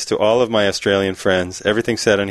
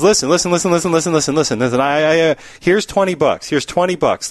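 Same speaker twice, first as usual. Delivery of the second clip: raised, urgent repeated pleading; acted eager pitch; 5 semitones higher than usual. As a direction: press the offer on them excitedly. Bartender eagerly bribes talking dog.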